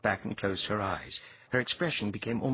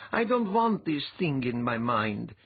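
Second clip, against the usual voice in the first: slow, earnest plea, pitched up; fervent; 5 semitones higher, 4 dB louder than usual. A narrator's reading. Latha begging Dwyer to free her mind, fervent. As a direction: plead it slowly, meaning every word. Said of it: "Latha said fervently".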